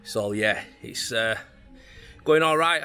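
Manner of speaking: breathless after heavy work; puffing between words; out of breath. Real, not acted. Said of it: "I'm a bit out of breath".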